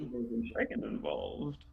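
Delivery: high, laughing through the words; laughing line. Acted. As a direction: giggle out the warning. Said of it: "She kinda looks and goes".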